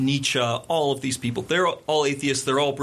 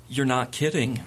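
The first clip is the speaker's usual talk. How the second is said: pause, then drop to an unamused realization; dawning realization. Retold or imitated. Reporter realizing Dean Cain means it, imitated sober realization. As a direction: let the mock amusement fall away. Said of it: "she laughs and goes".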